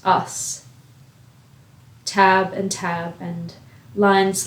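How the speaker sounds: measured poem recital with long pauses; spoken-word poem, evenly paced and spaced out; poetry reading. Acted. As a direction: read each line deliberately, letting it hang. Reads a poem aloud.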